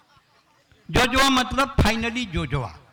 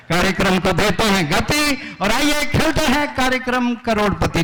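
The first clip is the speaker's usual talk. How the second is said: hammed-up game show host announcing, higher; quiz host voice; 3 semitones higher than usual. Poet opens a mock quiz show as host.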